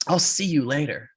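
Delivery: curt, final goodbye; firm parting shot. Retold or imitated. Racer dismisses his rival on the ice, firm. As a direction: deliver it as the last word.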